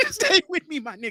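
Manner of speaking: high, laughing mock Asian accent. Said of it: "in the Asian accent".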